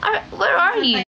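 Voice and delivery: lightly acted dramatic plea; a hint of a soap-opera actress calling out; mock dramatic actress. Practicing acting lines for viewers, a touch theatrical. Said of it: "pangarap ko maging artista".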